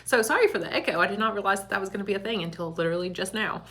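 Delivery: echoey empty room sound; big hall echo. Real, not acted. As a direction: voice bouncing off bare walls. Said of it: "now it's echoey in here".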